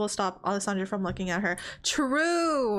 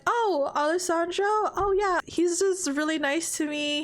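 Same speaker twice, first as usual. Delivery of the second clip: casual cover-up; 5 semitones higher than usual. Acted. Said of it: "she's gonna be like".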